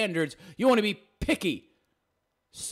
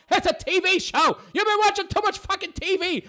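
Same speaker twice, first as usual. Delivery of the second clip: scoffing exasperation; 13 semitones higher than usual. Real, not acted. Scoffing at her fantasy.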